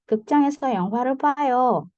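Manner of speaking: 극장에서 영화를 봐요 said a little high, as an order, not a question; high commanding tune. Shown as a demonstration. Teacher demonstrating a polite request, a little high. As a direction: give it as a gentle command. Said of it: "Agak tinggi, bukan tinggi bertanya ya, tapi tinggi memerintah".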